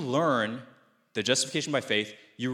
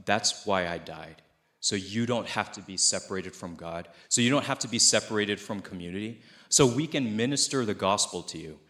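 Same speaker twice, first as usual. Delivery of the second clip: gentle Jesus; 4 semitones lower than usual. Retold or imitated. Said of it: "Jesus is like".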